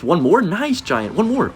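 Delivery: high, slow, urging cheer; excited cheering. Real, not acted. Cheering his giant to viewers, high and excited.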